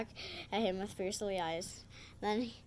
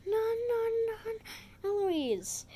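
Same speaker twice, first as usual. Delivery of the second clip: high, loud scolding yell; acted yelling; 12 semitones higher, 4 dB louder than usual. Nanny rushing in to stop Eloise, acted yelling. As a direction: yell each word high, dropping on the name. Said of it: "Nanny comes in yelling".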